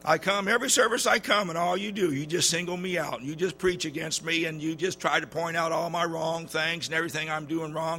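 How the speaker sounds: huffy churchgoer airing her grievance; imitated angry woman. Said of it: "she was just mad".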